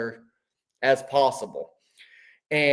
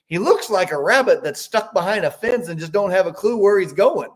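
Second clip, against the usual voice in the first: lightly mimicked German accent, raised pitch; laughing German voice; 4 semitones higher than usual. Amish man jokes about the spray cart, amused German accent. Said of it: "his German voice, he started laughing".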